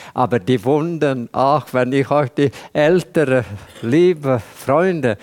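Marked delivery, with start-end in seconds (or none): none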